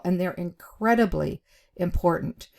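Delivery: incredibly leaned on, brief pause before important; weight on incredibly, a beat before important; stress and pause. Shown as a demonstration. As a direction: hit incredibly, then pause and land important. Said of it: "I emphasized incredibly, and I paused and said important".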